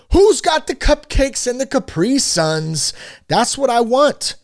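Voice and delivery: put-on high, slow, eager kid voice; kid begging for snacks. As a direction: whine it like a little kid after the game. Kids wanting snacks after game.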